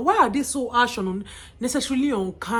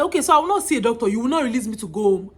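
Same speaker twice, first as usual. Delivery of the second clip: on the verge of tears; 6 dB louder, much faster than usual. Retold or imitated. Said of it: "Then I just burst into tears".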